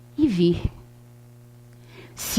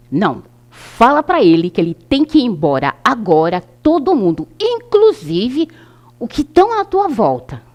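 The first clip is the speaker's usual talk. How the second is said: louder, commanding order to leave; a touch of a stern command; emphatic order; 2 semitones higher, 5 dB louder than usual. Retold or imitated. Moderator ordering the spirit away, loud and firm. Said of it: "a doutrinadora foi bem enfática".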